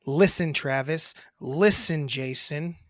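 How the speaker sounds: a hint of snotty teenage sass; mock-sulky thirteen-year-old, lightly done; teen girl attitude. Brother mocking sister's delivery as a sulky teen girl. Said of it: "like a thirteen-year-old girl with attitude".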